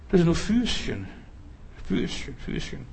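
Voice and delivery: whispered, belittling little feet; mocking whispered diminutive. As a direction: breathe it out with scorn.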